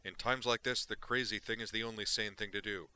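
loud, relentless rant of a wild reporter; fired-up gonzo journalist. Acted. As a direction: hammer it out like a manic columnist. Duke declares his philosophy.

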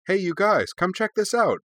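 high, loud, cheerful hail. A narrator's reading. Korra calls the arguing masters over, cheerful. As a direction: call the others over brightly. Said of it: "she said cheerfully".

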